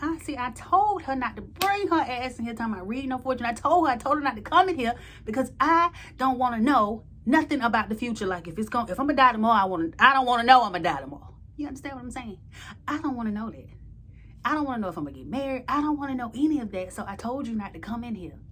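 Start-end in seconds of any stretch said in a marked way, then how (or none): 0.0-11.4 loud, higher rant about fortunes; full-volume retold rant, speeding up at the end. Narrator ranting in the room. 11.6-16.9 faster and a bit higher, pressing the point; quick, emphatic refusal; insistent. Real, not acted. Continues the rant to listener.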